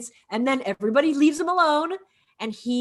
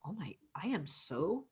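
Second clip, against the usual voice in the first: playacted stunned apology; 8 semitones lower, 5 dB quieter than usual. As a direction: imitate him taking a moment, barely voiced. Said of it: "he took a moment to play that".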